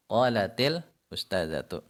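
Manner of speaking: qalatil joined with an i sound into ustazatu; linked reading. Shown as a demonstration. Teacher repeats the connected form for students. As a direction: say qalatil ustazatu smoothly in one breath. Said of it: "Sehingga bacanya qalatil ustazatu".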